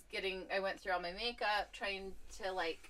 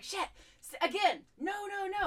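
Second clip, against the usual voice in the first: mock self-scolding; 11 semitones higher than usual. Scolding herself over the pens.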